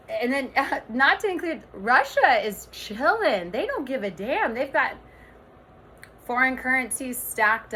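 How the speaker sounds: emphatic, agitated rant with swinging pitch; really worked up. Real, not acted. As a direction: get carried away making the case. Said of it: "I'm sorry, I'm getting so worked up".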